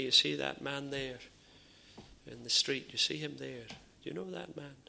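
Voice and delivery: soft suspicious questioning; hushed accusing questions. Retold or imitated. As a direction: press him quietly, like a gossip pointing someone out. Bystander challenges Peter about father.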